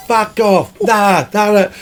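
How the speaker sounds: mock angry drummer. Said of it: "the drummer was saying".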